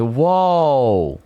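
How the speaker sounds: high, loud squeaky rat "Whoa"; rat squeak. Retold or imitated. Streamer to chat, redoing his rat squeak from the clip. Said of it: "I sounded like a legit rat".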